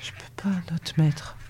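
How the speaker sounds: barely voiced, very soft plea; sighed refusal. A narrator's reading. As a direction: breathe it out on a sigh. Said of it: "Elle soupira".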